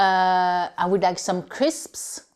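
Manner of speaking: I would like some crisps said slowly; slow model. Shown as a demonstration. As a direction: order crisps slowly so learners follow. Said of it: "Donc voilà".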